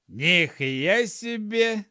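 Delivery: loud, high, stretched-out gnome amazement; drawn-out astonished gnome; amazed exclamation. A narrator's reading. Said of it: "воскликнул Арчи".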